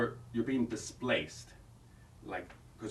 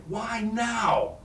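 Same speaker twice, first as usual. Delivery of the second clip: shouted question; 12 semitones higher, 4 dB louder than usual. Shown as a demonstration. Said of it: "you're gonna say".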